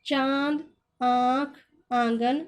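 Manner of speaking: चांद, आँख, आंगन with the first vowel through the nose; nasalised vowels. Shown as a demonstration. Teacher showing chandrabindu words, vowels nasalised. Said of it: "इसको नाक के सुर में बोला जाता है".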